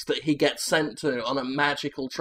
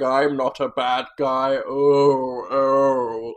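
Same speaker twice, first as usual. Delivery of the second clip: brooding mutter; 3 semitones lower, slower than usual. Acted. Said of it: "walks around going".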